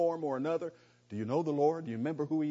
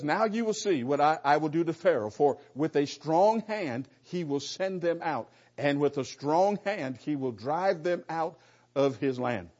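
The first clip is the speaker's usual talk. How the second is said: booming voice of God; 4 dB louder than usual. Acted. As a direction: proclaim it as God speaking with full authority. Preacher voicing God's words to Moses.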